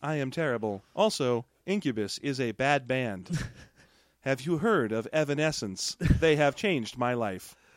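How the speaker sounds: inflectionless robotic voice. Acting out a robot's lines: inflectionless robot voice. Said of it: "this is an inflectionless robot".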